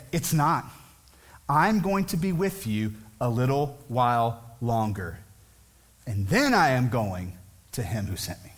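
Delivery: steady, sure and unhurried; calm certainty from the heart; confident. Shown as a demonstration. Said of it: "speaking out of a confidence in his heart".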